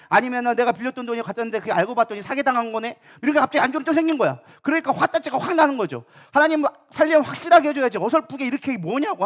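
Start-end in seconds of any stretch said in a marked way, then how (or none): 6.3-9.2 heated, acted-out griping at God; mock indignant protest; angry complaint. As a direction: complain loudly, mimicking someone fed up. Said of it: "하면서 화를 막 내는 거예요".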